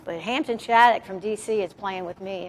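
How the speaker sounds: mock indignant pushback; retold refusal. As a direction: shut him down flat. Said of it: "And I said".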